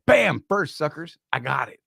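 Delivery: a mildly put-on voice for a buddy bragging he was first; made-up Craig voice. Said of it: "I make up people's voices".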